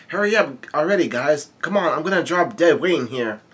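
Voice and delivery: mildly exasperated, pitch lifted at the start; impatient urging. Acted. Luffy nagging his friends to hurry, impatient. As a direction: hurry them along impatiently.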